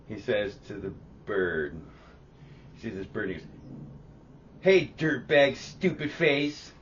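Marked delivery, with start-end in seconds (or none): 4.6-6.7 loud, high, drawn-out insult; angry kid. Retold or imitated. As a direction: imitate an angry little kid. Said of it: "that was the inflection he used".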